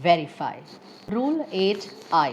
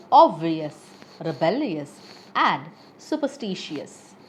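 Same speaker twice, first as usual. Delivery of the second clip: bounteous, contagious, hilarious, superstitious stressed just before the ending; stress before suffix. Shown as a demonstration. Teacher giving learners examples of the rule, pre-suffix stress from "bounteous" to "superstitious". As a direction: hit the syllable before the suffix: advanTAgeous, mysTErious, OBvious. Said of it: "primary stress is placed just before the syllable".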